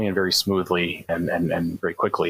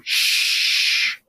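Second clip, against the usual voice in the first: unvoiced urgent shush. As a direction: hush them before they speak. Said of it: "and I go".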